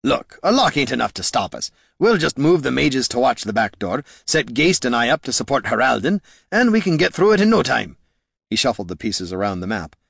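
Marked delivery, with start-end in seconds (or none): 0.0-8.0 gruff warrior voice. Acted. Gorm voiced by narrator.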